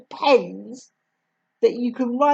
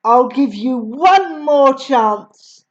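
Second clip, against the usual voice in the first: menacing headmistress; 2 semitones higher, 4 dB louder, slower than usual. Acted. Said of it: "the Trunchbull said".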